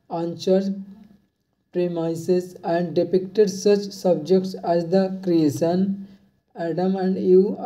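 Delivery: reads each phrase slowly and evenly for note-taking; a teacher reading a quiz question slowly; slow dictation reading. Acted. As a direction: dictate it word by word to the class.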